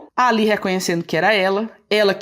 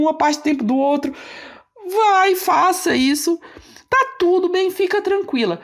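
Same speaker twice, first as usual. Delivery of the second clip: calming, reassuring. Retold or imitated. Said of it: "falou assim".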